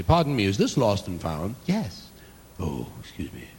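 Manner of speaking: mock psychic customer. Psychic customer describes item.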